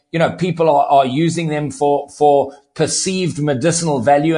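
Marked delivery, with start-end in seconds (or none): 2.7-4.4 "perceived" set apart with deliberate emphasis; stress on perceived. Real, not acted. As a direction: lean on the word "perceived". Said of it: "I put emphasis on the word perceived".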